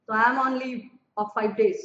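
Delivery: slow, deliberate example line; slow teaching read. Shown as a demonstration. Teacher slowly reading the reply for students. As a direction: lay out each word for the class. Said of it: "teaching example reply".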